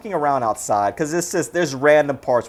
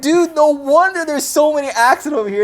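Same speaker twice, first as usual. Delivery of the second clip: imitated; 9 semitones higher, 3 dB louder than usual. Retold Mick complaint, high.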